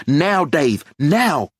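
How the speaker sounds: loud, high urgent yell. A narrator's reading. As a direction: shout the command now. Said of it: "Linda yells".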